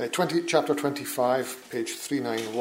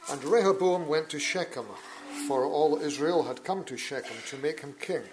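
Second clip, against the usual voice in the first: measured, solemn Bible reading; formal public reading from the pulpit; scripture reading; 3 dB quieter than usual. Acted. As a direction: read the King James text with steady gravity. Reads scripture aloud in church.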